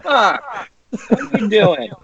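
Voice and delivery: high, squeaky mock East Coast rant; mock angry East Coast accent. Imitating an East Coast guy getting mad at his friends. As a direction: squeal it like a furious New Englander. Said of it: "it's like".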